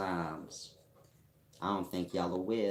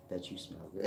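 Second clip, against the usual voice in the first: sassy voice; faster than usual. Shown as a demonstration.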